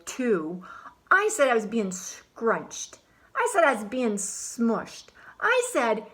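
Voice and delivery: put-on lively first-person storytelling as a fed-up boy; story narration as Alexander. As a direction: tell it like a grumpy kid recounting his day. Reads in Alexander's voice.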